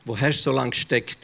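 a hushed, thoughtful repeat; quiet reflective echo. Acted. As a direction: turn the question on yourself softly. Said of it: "Ab und zu denke ich".

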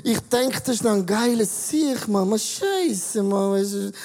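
slurring tipsy rambling; drunk voice. Retold or imitated. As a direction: play a drunk guy. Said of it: "merkst du, die Sprache wird komisch".

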